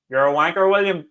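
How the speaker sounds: mild mock heckle across a road; half-shouted retold jeer; imitated shout. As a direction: call it out like a lone heckler. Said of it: "someone just shouts from across the road".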